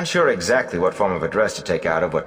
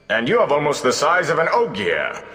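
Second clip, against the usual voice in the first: flattering bard; 9 semitones higher than usual. Acted. Gleeman flatters Egwene to be his assistant, charming.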